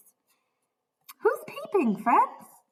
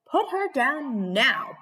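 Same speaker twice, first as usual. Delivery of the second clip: bellow; 3 semitones higher, slower than usual. Acted. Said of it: "bellowed the woodcutter".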